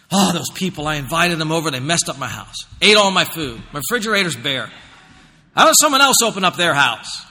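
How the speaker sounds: mock put-upon host griping; grumbling complaint. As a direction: grumble about unwelcome guests, lightly hammed-up.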